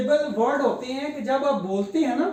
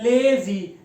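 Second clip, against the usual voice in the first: लेजी pulled apart as ले-जी; long ले, then जी in लेजी; broken in two; 4 dB louder, much slower than usual. Shown as a demonstration. Teacher testing the split for students, लेजी broken in two. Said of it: "जब इसको तोड़ने आप करें".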